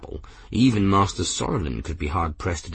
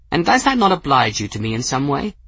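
put-on high, airy eccentric old gentleman; old man voice; 6 semitones higher, 4 dB louder, faster than usual. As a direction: play a whimsical elderly wizard. Narrator voices Ferris.

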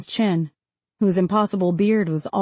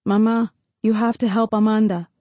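pleading. Acted. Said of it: "Jaime pleaded".

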